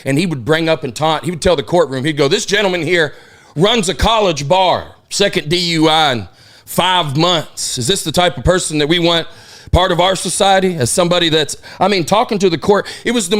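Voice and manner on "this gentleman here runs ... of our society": slow Southern prosecutor voice; Southern drawl. Retold or imitated. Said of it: "had, like, a foghorn leghorn".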